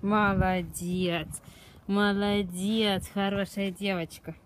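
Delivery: slow, drawn-out praise; talking to a dog. Real, not acted. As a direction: praise the dog slowly and fondly.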